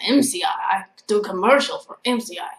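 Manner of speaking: badly imitated Vietnamese accent, oddly Russian-sounding; heavy Vietnamese accent. Storyteller quoting her stalker from class, heavy mock Vietnamese accent. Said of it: "He had a really heavy accent".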